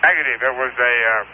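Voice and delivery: talking with food in mouth; mouth full. Real, not acted. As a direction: speak through a mouthful of food. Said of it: "excuse me, I have my mouth full".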